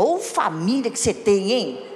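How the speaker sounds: mock exasperated grumble; disparaging. Imitating a husband running down his wife's family, disparaging. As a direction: complain about the relatives, half-joking.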